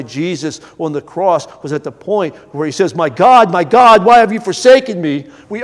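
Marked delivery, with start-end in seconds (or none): 3.0-5.3 anguished cry. Acted. Quoting Jesus's cry from the cross.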